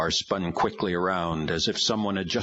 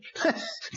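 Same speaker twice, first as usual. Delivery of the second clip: demon laugh; 3 dB quieter than usual. A narrator's reading. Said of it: "Witchcraft only laughed".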